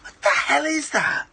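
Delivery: high, stunned what is that; reacting in shocked disbelief; baffled disbelief. Real, not acted. Host baffled watching mukbang clip.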